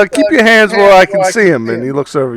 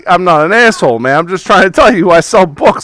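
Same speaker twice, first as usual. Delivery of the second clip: a slightly louder salesman's greeting, slowing at the end; lightly voiced eager bookstore owner; pushy shopkeeper; 3 dB louder than usual. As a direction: welcome the customer like a pushy shopkeeper. GM voices Tony.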